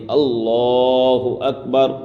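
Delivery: اللہ with its lam said fully and lovingly; slow اللہ اکبر with a full, tender lam in اللہ; اللہ اکبر recited slowly, lam rounded and full; Allah with a full lam. Shown as a demonstration. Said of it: "لام کو پیار و محبت کے ساتھ ادا کرے".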